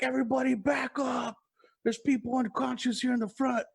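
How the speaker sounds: held-back yell to a crowd; imitated crowd warning. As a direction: call out like a band halting the show. Band stops show to warn crowd.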